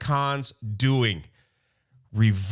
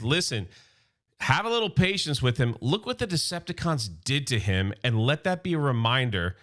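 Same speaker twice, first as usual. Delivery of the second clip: a hint of a calm, grave leader; Optimus Prime voice; 4 semitones lower than usual.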